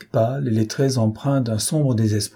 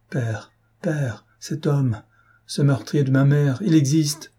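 terrified; 3 semitones higher than usual. Retold or imitated. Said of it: "expression d'épouvante et d'horreur".

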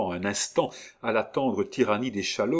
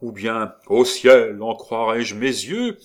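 mock theatrical dismay; 7 dB louder, slower than usual. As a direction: overblown stage exclamation. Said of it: "On dit aussi dans ces cas-là".

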